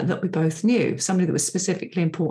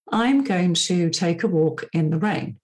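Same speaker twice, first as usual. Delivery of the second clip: I'm leaned on, the rest falls away; stress on I'm. Shown as a demonstration. Podcaster demos intonation to her listener, stress on I'm. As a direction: start by hitting the word I'm. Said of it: "I'm putting a different intonation on different words".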